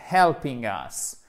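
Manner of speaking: "helping" slow, with its ING fully sounded; clear ING ending. Shown as a demonstration. Teacher dictating to students, slow "helping" with clear ING. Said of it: "mettez bien le I N G".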